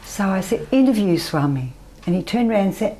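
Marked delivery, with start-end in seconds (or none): 0.7-1.7 said out loud, no longer whispered; a bit louder. Retold or imitated. Daughter urged her, so she asks Swami a little louder. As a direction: voice it plainly so he hears this time. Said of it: "You have to say it louder".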